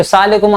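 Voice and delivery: सलाम अलैकुम squeezed into "saalekum"; swallowed greeting. Retold or imitated. Mimicking people's greeting, सलाम अलैकुम slurred into "saalekum". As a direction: drop the middle of सलाम अलैकुम. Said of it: "अपने अंदर ही कहते".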